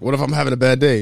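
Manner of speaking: lightly mocking retold question; slick comeback. Mom sniping back at the driver, mildly slick. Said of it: "she said something slick".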